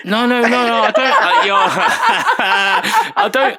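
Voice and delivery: high, loud laughing protest; real laughter breaking into pleading denial; flustered protest. Real, not acted. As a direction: protest through helpless laughter. Laughing protest at being teased.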